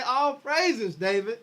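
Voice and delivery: gushing, happy greeting for her husband; mock cheerful wife. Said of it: "did she hug him and say".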